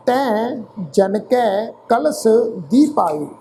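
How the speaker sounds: slow, measured Gurbani reading with drawn-out word endings; scripture recitation. Shown as a demonstration. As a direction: recite phrase by phrase, pausing between. Repeats the verse.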